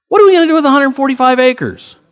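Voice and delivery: high, loud incredulous outburst; stunned disbelief. Retold or imitated. Pastor retelling his shock at a huge land offer, high and loud in disbelief. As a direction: throw the question up in disbelief.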